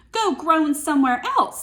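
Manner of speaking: hammed-up grumpy witch; grumpy scold. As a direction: shoo him away crossly.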